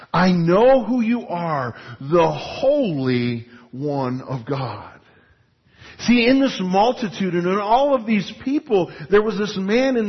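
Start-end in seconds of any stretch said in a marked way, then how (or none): 0.1-4.9 slow, low, eerie demon voice; ominous demon. Retold or imitated. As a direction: draw it out, menacing. Demon names Jesus.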